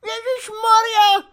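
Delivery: very high, loud, drawn-out wail; cried out. A narrator's reading. Housekeeper hears the soldier is a spy, shrieking. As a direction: cry out in shrieking alarm. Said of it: "vykřikla pejzlerka".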